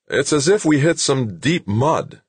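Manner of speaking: high, puzzled soldier's voice; puzzled sergeant. Acted. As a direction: explain it in a high, baffled voice. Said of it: "sounded more puzzled than worried".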